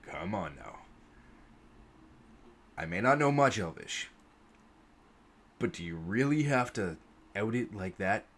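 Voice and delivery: low, rumbling weary rebuke; deep gruff human, tired and scolding; gruff old warrior. Acted. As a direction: growl it down at him like a grizzled veteran. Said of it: "and goes".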